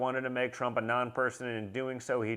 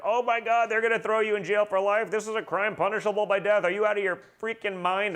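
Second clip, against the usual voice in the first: panicked lawyers; 8 semitones higher than usual. Retold or imitated. Lawyers calling after his TV rant, mock panicked and high. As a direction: play the lawyers freaking out. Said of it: "They're like".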